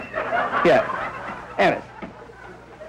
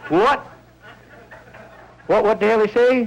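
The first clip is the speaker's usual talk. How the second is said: confused Southerners; 5 semitones higher than usual. Retold or imitated.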